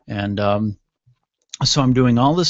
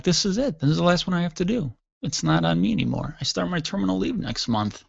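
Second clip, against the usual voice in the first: excited; 6 semitones higher than usual. Retold or imitated. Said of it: "I was very excited".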